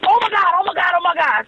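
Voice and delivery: high, repeated gasping delight; can't believe it's happening; giddy disbelief. Retold or imitated. Repeating in disbelief before trip.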